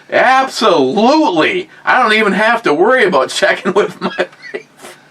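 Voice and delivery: gleeful enthusiasm. Acted. Friends planning to go shooting, gleeful. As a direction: jump at the invitation with exaggerated glee. Acting out eager yes to shooting.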